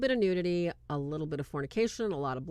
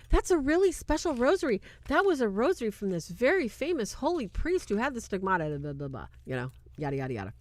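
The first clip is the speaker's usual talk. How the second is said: gushing mom; 4 semitones higher, faster than usual. Retold or imitated. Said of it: "And she's like".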